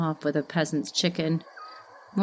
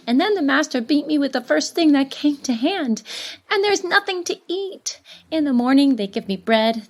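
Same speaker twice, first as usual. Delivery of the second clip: put-on higher and louder, a child pouring out his hurts; boy's pleading letter; 5 semitones higher, 4 dB louder than usual. Apprentice boy begging his grandfather, high urgent child's voice. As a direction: build into a desperate, tearful-edged plea, rushing at times.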